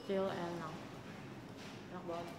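talking between bites; chewing a cookie. Real, not acted. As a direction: mouth partly full. Seen 2: bites dark cookie at 1.2–2.1, then closed-mouth chewing while talking.

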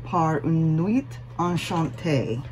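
careful amateur French accent; awful French accent. Real, not acted. Stitcher introducing another French pattern, awful French accent. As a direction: attempt the French title, accent imperfect but earnest. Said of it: "forgive my awful French accent".

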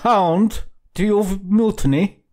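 high-pitched outraged cry, slowing on the question; story villain's shriek, pitched far above narration; screamed. A narrator's reading. Captain lashing out at a mutinous recruit, screaming. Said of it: "screamed he".

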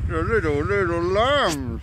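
high, loud cry of delight at lambs; squealed, stretched-out delight; excited cooing. Real, not acted. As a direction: gush loudly over cute little lambs, high and drawn out. Calling out at sight of lambs.

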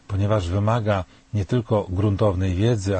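ordinary delivery

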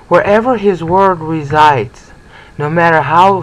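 wherever his word resides drawn out, each word weighted; slow down and lean on wherever and small; slow stress on wherever. Real, not acted. Teacher stresses the verse's key phrase, slow and weighty. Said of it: "something I want to stress".

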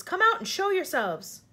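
high, loud, stretched-out command; shouted order. A narrator's reading. Police chief ordering the hidden travelers out, shouted. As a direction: call them out forcefully. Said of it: "shouted the chief of police".

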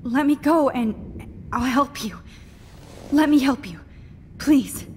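pleading. Acted. Captive begging for release.

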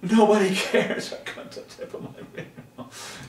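hammed-up self-pity; mock wailing. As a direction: wail it like a wounded child, then fade breathless. Acts out wailing self-pity in dream.

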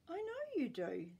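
grandma, dryly knowing; frowning Grandma. Acted. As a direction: answer with a frown in the voice. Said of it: "said Grandma, frowning".

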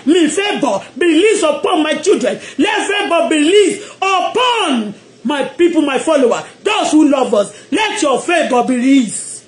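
shouted prayer blessing; preaching at full force. Acted. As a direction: proclaim it over the congregation.

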